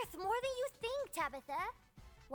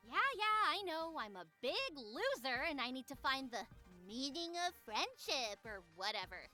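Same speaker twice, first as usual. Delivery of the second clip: dismissive sarcasm; 12 dB quieter than usual. Acted. Tabby cutting off Love's friendship lecture, dismissive. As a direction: mockingly concede just to cut off the lecture.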